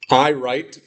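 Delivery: I write with the I leaned on; stress on I. Shown as a demonstration. Teacher showing italic emphasis on I. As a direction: lean on I as if in italics. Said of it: "put it in italics".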